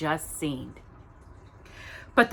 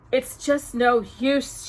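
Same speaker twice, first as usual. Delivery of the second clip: high, slow, despairing voice of Cinderella; sobbing; 6 semitones higher, slower than usual. Acted. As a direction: let the hope drain out slowly. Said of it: "she sobbed".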